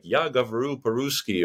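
Russian said with a mild American accent; a light sketch of an American speaking Russian; Я говорю по-русски with an American accent. Shown as a demonstration. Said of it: "maybe it sounds something like".

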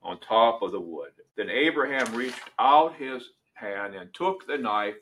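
measured, solemn reading of Scripture; dramatic Bible reading from the pulpit. Acted. Reads Genesis 22 aloud.

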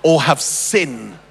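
solemn mock sermon with drawn-out pauses; mock preacher. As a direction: play the showman preacher working the crowd. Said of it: "the famous Christian leader came up".

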